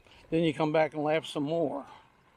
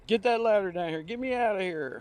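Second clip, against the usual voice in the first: retold angry demand; 5 semitones higher than usual. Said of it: "made Bill that much madder".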